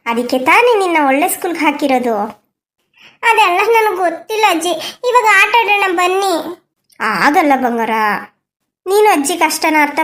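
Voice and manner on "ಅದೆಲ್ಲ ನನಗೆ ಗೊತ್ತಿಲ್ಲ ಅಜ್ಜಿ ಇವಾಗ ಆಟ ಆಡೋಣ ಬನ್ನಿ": put-on half-laughing, half-crying little girl; a small girl begging to play; whiny child. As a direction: wheedle grandma to come play.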